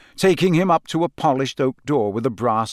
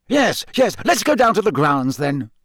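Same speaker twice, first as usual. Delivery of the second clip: impatient; 7 semitones higher, 3 dB louder than usual. A narrator's reading. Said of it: "said Fudge impatiently".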